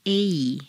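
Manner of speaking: A E glided as a double sound; diphthong demo. Shown as a demonstration. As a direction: split A into A E. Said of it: "clear double sound".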